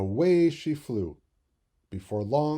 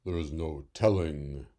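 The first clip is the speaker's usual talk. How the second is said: croaking frog; 4 semitones lower than usual. Acted. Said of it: "croaked the frog".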